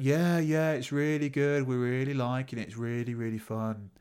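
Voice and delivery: imitating sarcastic enthusiasm; mock-keen, not meaning a word. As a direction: mimic insincere praise, easing off by the end. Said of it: "I could tell from that sarcasm".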